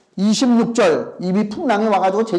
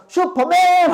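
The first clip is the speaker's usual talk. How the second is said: put-on kid's shout; 10 semitones higher, much slower than usual. Pastor imitating kids yelling as they jump. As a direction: shout it like a child leaping.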